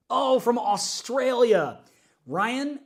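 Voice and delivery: light up at the comment; excited greeting. Real, not acted. Host greeting a viewer from Australia, excited.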